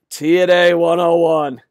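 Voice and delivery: emphatic verdict. Real, not acted. Labels fans' tactic, then sighs it.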